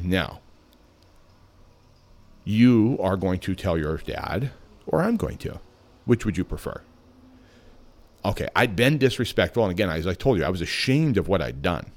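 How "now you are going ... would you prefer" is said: calm, deliberate. Retold or imitated. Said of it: "very calmly and deliberately said to me".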